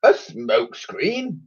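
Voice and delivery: put-on very slow, spluttering old admiral; spluttered. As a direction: splutter in disbelief. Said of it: "spluttered the Admiral".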